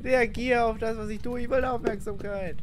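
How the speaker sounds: pleading. Real, not acted. Demanding ghost attention.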